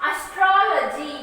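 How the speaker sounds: astrology with TRO leaned on; teacher's model astrology, stressed third syllable from the end; stress on vowel. Shown as a demonstration. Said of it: "we are giving stress to the vowel".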